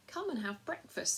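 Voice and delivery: a lamb's gentle, sweet invitation; sweet milky voice. Acted. Lamb welcomes the hungry children with a sweet voice. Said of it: "in its sweet, milky voice".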